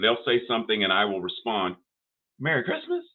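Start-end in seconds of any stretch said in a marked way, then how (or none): 2.4-3.0 much higher, put-on teasing "Merry Christmas". Grandpa teasing the grandkids, in a high mock voice. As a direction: toss it off high like a playful dodge. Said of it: "when I say, "Merry Christmas," it's my way of saying, "What are you talking about?".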